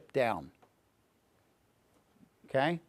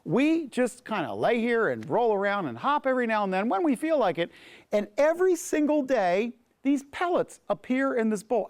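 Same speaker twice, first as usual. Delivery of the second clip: contented fat rabbit; 5 semitones higher than usual. Acted. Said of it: "And he says".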